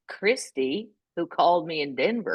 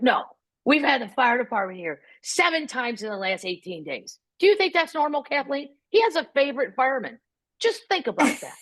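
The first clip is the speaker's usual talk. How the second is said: higher-pitched, insistent mother's lecture; indignant mom; 3 semitones higher than usual. Retold or imitated. Mother justifying herself to her daughter Kathleen, indignant. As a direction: imitate a mom making her case, emphatic.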